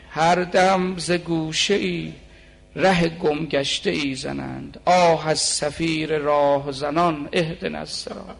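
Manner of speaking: slow, fuller-voiced devotional recitation; intoned Persian couplet, unhurried; poem recitation. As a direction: draw out the verse like a lament. Recites verse with refrain.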